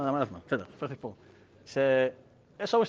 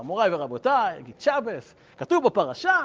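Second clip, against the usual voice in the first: lightly voiced preacher, rising in pitch; rabbi rehearsing sermon. Rival rehearsing aloud in his hotel room, mock sermon delivery. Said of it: "אומר את הדרשה".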